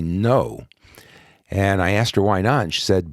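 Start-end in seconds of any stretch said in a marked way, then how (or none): 0.0-0.7 a firm, emphatic "No"; "No" said as a final word; emphatic refusal. Retold or imitated. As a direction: put full weight on "No", as a mother forbidding. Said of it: "very emphatically".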